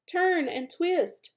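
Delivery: high, slow honk of a goose. Acted. Goose coaching Wilbur to escape, slow high honk. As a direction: stretch the words out like a honking goose. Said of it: "honked the goose".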